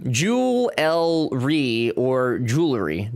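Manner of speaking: "Jewelry" first as "jewel-ry", then as "joo-lery", slowly; two pronunciations. Shown as a demonstration. Explaining two ways to say jewelry, slowly. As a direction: contrast both ways of saying "Jewelry". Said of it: "how people say".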